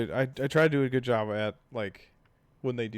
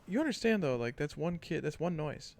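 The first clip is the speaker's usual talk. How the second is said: retold partner; 4 semitones higher, 4 dB quieter than usual. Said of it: "and Mel's like".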